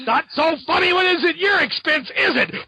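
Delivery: high, sneering mock taunt; mock taunting hero. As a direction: gloat over the beaten jester. Spider-Man taunting victim, retold.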